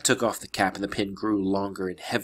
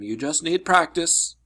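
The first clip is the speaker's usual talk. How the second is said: slower, higher call of advice; calling after someone; 5 semitones higher, 3 dB louder than usual. Acted. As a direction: call it out, stretched a little. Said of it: "Chiron called after him".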